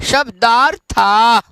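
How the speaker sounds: शब्दार्था drawn out slowly, syllable by syllable; careful pronunciation. Shown as a demonstration. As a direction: say शब्दार्था slowly for students to copy. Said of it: "एक बार उच्चारण कर लेंगे".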